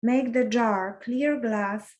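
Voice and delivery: measured poem recital with pauses between lines; poem reading. Acted. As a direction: read it line by line, letting each phrase rest. Reads a second poem aloud.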